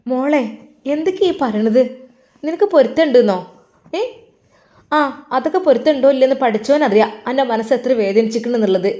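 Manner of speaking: put-on nurse crying out against the girl's words; distressed protest. Nurse upset at dying words. (ഉച്ചത്തിൽ വേദനയോടെ എതിർപ്പ്)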